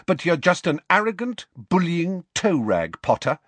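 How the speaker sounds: high-pitched, cold telling-off; cold contempt. A narrator's reading. Lily tells James what she thinks of him, coldly. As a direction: insult him with icy scorn. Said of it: "she said coldly".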